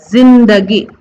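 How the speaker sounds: जिंदगी with a z; z sound. Shown as a demonstration. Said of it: "ज को जो है ना जेड प्रोनाउंस करना है". (जिंदगी में ज़)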